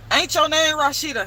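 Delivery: imitating him the wrong way; mock rough voice. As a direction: ham up a rough dude asking. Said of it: "He didn't say it like that".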